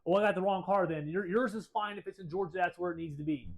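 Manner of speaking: mock hurried relief at getting the wrong car; somewhat frantic. Georgia guy realizing his mistake, mildly frantic. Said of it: "kind of somewhat believably frantic".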